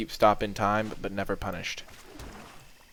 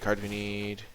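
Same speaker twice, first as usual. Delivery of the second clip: the same plea again, much softer; quiet repeat; 10 dB quieter than usual. Real, not acted. Player repeating the plea to the deck under the breath, much softer. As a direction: murmur it to yourself, hope fading.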